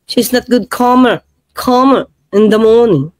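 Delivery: imitated British lilt, each phrase falling; mock British accent. Repeating the lawyer's phrase for viewers, mock British accent. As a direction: put on British vowels, dwelling on "calmer". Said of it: "Ganyan po ang British".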